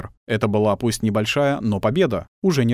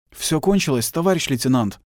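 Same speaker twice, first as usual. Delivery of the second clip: moaning; 4 semitones higher than usual. Acted. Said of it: "простонал Шульжин".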